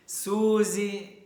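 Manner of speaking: quick happy shout of greeting; calling out a name. Real, not acted. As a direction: hail the next friend loudly. Greeting another friend arriving.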